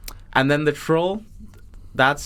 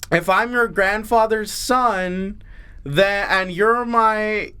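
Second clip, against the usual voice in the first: troll riddler; 3 semitones higher, slower than usual. Pretend. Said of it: "troll says".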